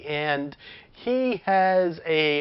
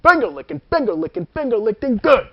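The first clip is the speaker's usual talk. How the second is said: Colonel Sanders voice; 3 semitones higher, 3 dB louder, faster than usual. Retold or imitated. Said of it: "being like".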